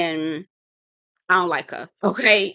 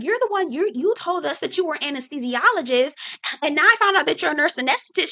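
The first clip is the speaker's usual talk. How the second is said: imitating an accuser; 7 semitones higher than usual. Acts out accusing castmate.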